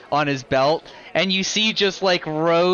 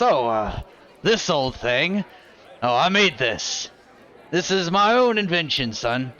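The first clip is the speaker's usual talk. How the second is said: proud gunslinger. Acted. To the party, a mild boastful old gunsmith voice. NPC Kaltog shows off his gun.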